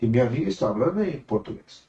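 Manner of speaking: retold lines in Spanish pronunciation. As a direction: switch into spoken Spanish. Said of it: "em espanhol". (em espanhol)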